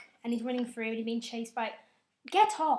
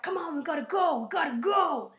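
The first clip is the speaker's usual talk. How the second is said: higher, louder hurry-up call; urgent call; 5 semitones higher, 5 dB louder than usual. Retold or imitated. Sulu urging Spock to hurry, urgent call. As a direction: rush him, we have to leave now. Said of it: "Sulu's like".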